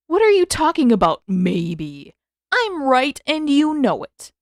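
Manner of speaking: a hint of brotherly bluster; Sokka's voice. Sokka insisting.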